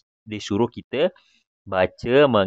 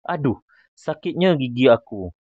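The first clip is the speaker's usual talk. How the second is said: higher-pitched toothache complaint; acted mild cry of pain; 4 semitones higher than usual. Shown as a demonstration. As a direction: demonstrate an aching exclamation. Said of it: "gunakan intonasi sakit".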